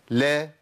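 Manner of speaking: "لا" as an isolated syllable, L opening into an a; lam with fatha. Shown as a demonstration. Teacher demonstrates each vowelled lam, L with fatha. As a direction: model "لا" neatly on its own. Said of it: "اللام المتحركه بفتح".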